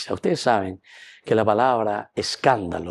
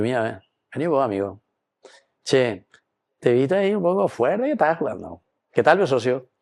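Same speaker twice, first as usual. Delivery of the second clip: friendly rebuke; 2 semitones higher than usual. Retold or imitated. Voicing a friendly reprimand to a player.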